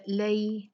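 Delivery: "लई" as a gliding "lay-ee"; "लई" with an audible y; leen diphthong. Shown as a demonstration. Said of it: "लई लीन है".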